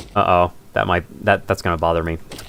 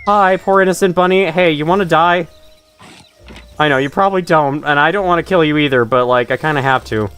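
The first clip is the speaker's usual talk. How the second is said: higher, slowing, sweetly guilty; mock apology to bunny; 3 semitones higher than usual. Player apologizing to a rabbit in the game, mock sweet guilt. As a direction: coax the bunny as you explain. Talking to a bunny before killing it.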